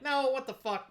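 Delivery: high-pitched mock incredulity; acted baffled reaction; retold disbelief. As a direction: replay your disbelief, pitch jumping up. Retold disbelief at internet result.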